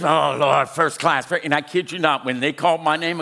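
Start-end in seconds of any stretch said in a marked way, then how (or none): 0.0-1.3 hammed-up plea, loud opening; mock prayer. Preacher retelling his upgrade prayer, mock pleading. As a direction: playfully beg heaven for a favor. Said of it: "I was praying this".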